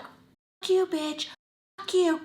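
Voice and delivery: high, loud cursing outburst; heated retold outburst; angry comeback. Her furious comeback.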